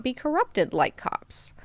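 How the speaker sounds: whispered, slow aside. Real, not acted. Sneering at cops in a slow whisper. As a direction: drop to a whisper.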